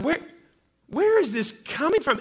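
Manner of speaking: a father re-voicing his angry son; retold angry yelling. Son screaming in anger at his father, a retold mock yell. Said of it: "starts screaming in anger".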